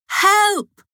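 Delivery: high-pitched call for help; shouted cry. A narrator's reading. Boy among jellyfish calls for help, shouting. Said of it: "he shouted".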